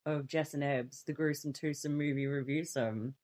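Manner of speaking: low, soft spooky host intro; vintage horror narrator. Acted. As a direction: greet them like a creepy horror host. Horror-host style show opening.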